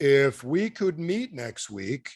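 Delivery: very slow, drawn-out slow-motion delivery. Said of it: "I'll do it in slow motion".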